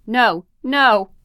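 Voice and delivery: loud, high panicked cry of no; a mother's desperate no, shouted; frantic yell. Retold or imitated. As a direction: shout it out in terror for the child. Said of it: "Deirdre was yelling".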